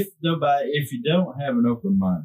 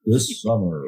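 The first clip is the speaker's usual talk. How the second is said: mock trailer announcer, lightly done; disclaimer voice; 2 semitones lower, slower than usual. Hosts joking about good and evil, disclaimer voice. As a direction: tease it like a movie promo. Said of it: "that was a disclaimer voice right there".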